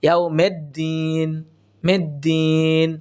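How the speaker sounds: "ইয়াউমিদ্দিন" said "yau-med-deen", e for i; wrong pronunciation. Shown as a demonstration. Teacher showing what many people say, mistaken "med" vowel. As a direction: open "mid" to "med" in "ইয়াউমিদ্দিন". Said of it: "অনেকেই বলে থাকি".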